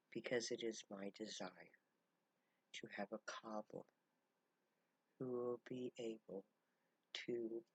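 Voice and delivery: hushed and heartfelt, slowing on key words; soft grateful. Retold or imitated. Camp leader welcoming the cobbler, softly grateful.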